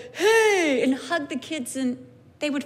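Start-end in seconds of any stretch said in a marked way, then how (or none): 0.1-0.8 put-on happy kid greeting. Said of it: "he loved to go".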